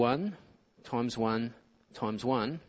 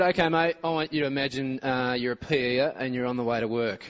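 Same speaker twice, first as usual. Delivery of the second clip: put-on Aussie accent. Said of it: "we put on the Aussie accent".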